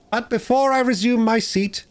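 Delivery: high, preening after-dinner voice; pompous speaker. Acted. Chief Weasel milking the applause, high and pompous. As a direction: play the smug host of the feast.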